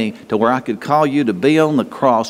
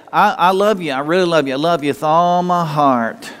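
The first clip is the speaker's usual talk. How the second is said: mock gushing; 3 semitones higher than usual. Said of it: "somebody to say".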